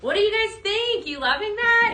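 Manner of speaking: bubbly sales host asking the audience; excited. Real, not acted. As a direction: pump up the viewers with delight. Hyped question to live viewers.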